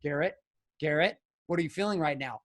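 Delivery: a hint of a soft, unruffled counselor; little Zen lady. Therapist checks in with the yelling husband, lightly Zen. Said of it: "She was like little Zen lady".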